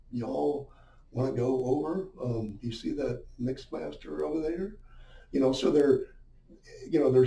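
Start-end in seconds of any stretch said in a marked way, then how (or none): 0.1-4.8 a hint of an Alabama local, eased and soft; lightly put-on Southern accent, softer; Southern drawl. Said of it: "talk softer".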